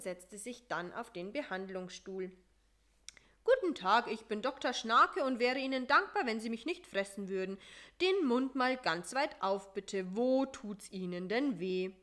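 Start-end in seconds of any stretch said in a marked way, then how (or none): 3.4-11.9 a hint of a brisk, chatty mosquito dentist; lightly voiced doctor, polite and busy; louder, friendly dentist greeting a patient. Voices Doktor Schnake.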